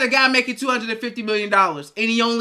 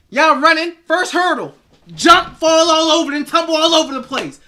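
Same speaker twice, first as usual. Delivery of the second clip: louder, higher taunting; animated mockery; mocking; 4 semitones higher, 4 dB louder than usual. Real, not acted. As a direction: ridicule the team's stumble. Mocking race metaphor.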